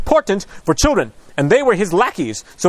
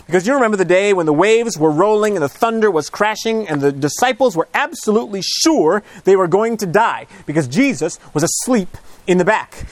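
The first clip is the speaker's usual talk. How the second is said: ordinary talk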